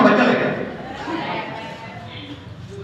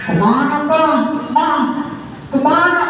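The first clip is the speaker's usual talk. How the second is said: put-on child asking; 4 semitones higher than usual. Child asks parents where going.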